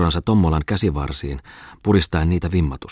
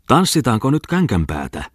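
higher rowdy yell; gleeful shout; 6 semitones higher than usual. Acted. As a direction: call out to brawl. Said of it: "Huusi Bongman". (riehakas huuto)

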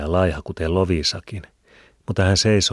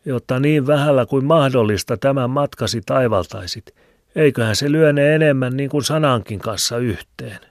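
put-on higher, louder old Filemoni with a cackle; old man's voice; 8 semitones higher, 6 dB louder than usual. A narrator's reading. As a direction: chuckle and ramble like an old hermit. (vanhan miehen hekottava ääni)

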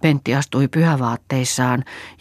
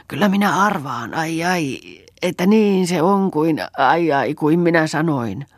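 higher, groaning triumph; pained old woman; 4 semitones higher, 3 dB louder than usual. A narrator's reading. Old woman guessing the truth, pained gloating.

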